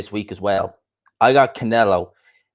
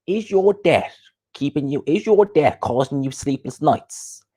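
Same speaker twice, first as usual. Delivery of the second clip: higher-pitched mock advert intro; Coogan; 4 semitones higher, slower than usual. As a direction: stretch it out like an ad pitch. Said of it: "Coogan with".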